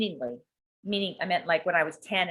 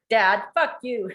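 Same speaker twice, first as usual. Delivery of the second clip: mock angry outburst; 4 semitones higher, 4 dB louder, much slower than usual. Voicing daughter's anger at dad.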